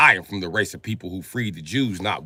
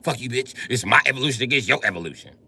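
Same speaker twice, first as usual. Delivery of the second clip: snapping back; faster than usual. Retold or imitated. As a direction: snap it back faster. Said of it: "Then he'd be like".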